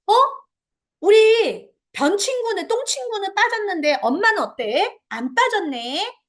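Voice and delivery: slow, drawn-out mock surprise; playful surprise. Shown as a demonstration. Mom shows the child she didn't fall in, playfully surprised. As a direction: act amazed for the child. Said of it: "요때 아이한테 얘기해 준 거예요".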